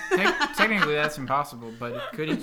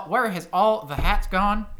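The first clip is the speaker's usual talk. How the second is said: slow, loud cowboy drawl on a pirate line; 4 semitones higher, 8 dB louder, slower than usual. Shown as a demonstration. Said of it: "to say pirate things in a cowboy voice".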